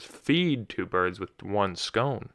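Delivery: very slow, "feed" and "scone" drawn out; stress on the replaced words. Shown as a demonstration. Host corrects the emphasis, stressing "feed" and "scone". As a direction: spell it out slowly, marking "feed" and "scone". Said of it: "but the replacement word was".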